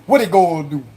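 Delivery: run-together Cajun "What they gonna do"; Cajun-accented question. Shown as a demonstration. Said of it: "That's the Cajun right there".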